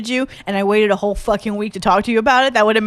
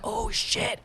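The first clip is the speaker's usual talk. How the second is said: high, hushed mock panic; freaked-out realization; 12 semitones higher, 11 dB quieter than usual. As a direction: gasp it small and high, as if horrified. Acting out being freaked out.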